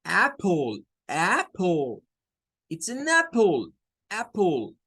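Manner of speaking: apple with the A-E blend and a schwa ending; correct apple. Shown as a demonstration. Teacher models correct apple after explaining the sound. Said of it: "es este E".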